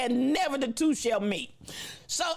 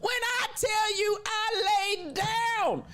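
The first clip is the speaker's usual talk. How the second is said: laughing; 8 semitones higher, slower than usual. Real, not acted. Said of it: "cracking up at the memory".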